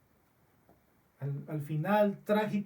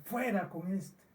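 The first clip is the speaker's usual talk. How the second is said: "Fuera con este" said softer, as a lament; preacher quietly grieving the crowd's rejection; grieving repeat; 3 dB quieter than usual. Real, not acted. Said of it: "Son palabras para llorar".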